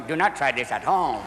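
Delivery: put-on low calm Indian yogi accent. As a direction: warn gravely as an Indian yogi.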